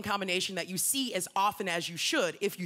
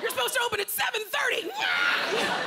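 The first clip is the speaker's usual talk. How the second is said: angry cats; 9 semitones higher, 3 dB louder than usual. Pretend. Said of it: "all these cats are like".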